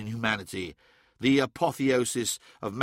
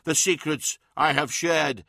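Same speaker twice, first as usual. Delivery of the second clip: commanding Emperor. Acted. Emperor continues his ruling.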